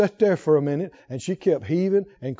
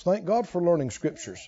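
ordinary delivery

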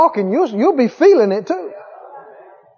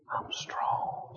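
unvoiced, exhausted whisper; weak whisper; 21 dB quieter than usual. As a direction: whisper it with no breath left. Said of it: "She said it again".

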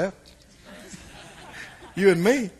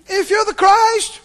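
higher, slow sarcastic jab; higher, slow sneering demand; mocking thief; 11 semitones higher, 5 dB louder, slower than usual. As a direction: taunt him from the next cross. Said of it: "Same tone".

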